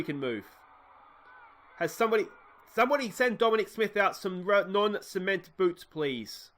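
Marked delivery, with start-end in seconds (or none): 1.8-6.5 exasperated. Acted. Exasperated plea about a frozen player.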